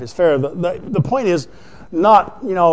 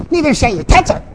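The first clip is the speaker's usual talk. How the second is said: high, sassy retort, hands on hips; with attitude; 8 semitones higher, faster than usual. Acted. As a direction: snap it back at the devil with a bit of sass. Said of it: "with attitude".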